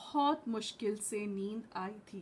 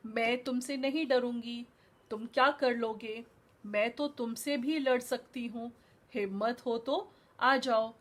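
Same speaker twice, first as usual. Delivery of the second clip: brave challenge. Acted. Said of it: "बहुत bravely उसने lion को बोला".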